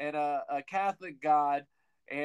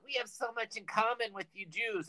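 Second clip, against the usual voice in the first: lightly put-on Jewish accent, higher and softer; 5 semitones higher, 6 dB quieter than usual. Catholics telling Jews how much they share, mock Jewish accent. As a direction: do a mild comic Jewish accent. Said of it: "I'm doing a Jewish accent".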